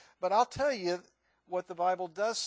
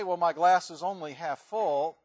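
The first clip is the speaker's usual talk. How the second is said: mock optimist; 6 dB louder than usual. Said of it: "You can say".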